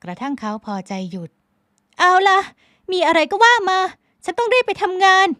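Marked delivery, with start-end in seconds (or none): 1.6-5.3 high, loud, curt brush-off; a high-voiced woman snapping to cut the talk short; snappy young woman. A narrator's reading. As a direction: toss the words off impatiently. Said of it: "พลอยไหมสะบัดเสียง".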